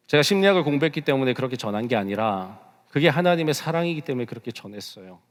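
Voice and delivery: usual speaking voice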